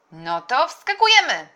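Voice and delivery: loud, high excited call; wołanie. A narrator's reading. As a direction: call everyone to jump in. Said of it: "zawołał wuj". (głośny, radosny okrzyk)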